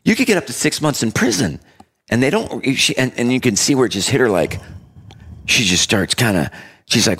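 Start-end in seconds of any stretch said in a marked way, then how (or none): 0.0-1.6 high, lightly voiced stern judge; a hint of a judge laying down the law. Judge warns the girl.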